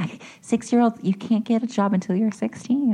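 put-on high-pitched, protesting child voice; mock-indignant high retort; indignant kid. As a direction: argue back like an outraged six-year-old. Retold argument with father.

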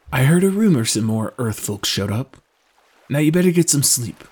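lightly voiced sailor character; friendly sailor. Sailor sharing news and advising Drew to sleep, friendly. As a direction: chat as a seasoned boatman.

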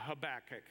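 "Habakkuk" with stress on the second syllable, huh-BACK-uk; option B pronunciation. Shown as a demonstration.

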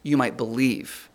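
drawn out, leaning on each word; slow emphatic quote. Shown as a demonstration. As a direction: let the congregation finish the line slowly.

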